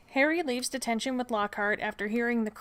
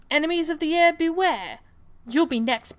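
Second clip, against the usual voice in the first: gloating shout; 7 semitones higher, 6 dB louder than usual. Acted. Malfoy gloats over the petrified cat.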